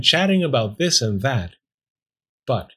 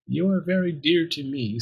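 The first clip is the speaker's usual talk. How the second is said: tender; 5 semitones higher than usual. Acted. Talking bone comforting doomed Pearl, tender. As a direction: comfort gently with pitch lifted.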